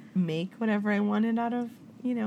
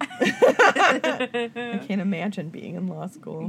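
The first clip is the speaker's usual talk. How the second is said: laughing slowly through the line; 4 dB louder, much slower than usual. Real, not acted. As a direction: chuckle out the words. Laughing disbelief at idea.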